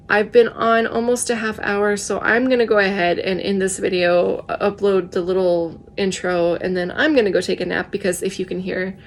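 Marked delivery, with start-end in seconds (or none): 4.5-7.9 tired, froggy voice; a froggy, worn-out voice. Real, not acted. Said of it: "I'm starting to get froggy". 7.9-9.0 froggy, tired voice. Real, not acted. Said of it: "That is my I'm tired voice".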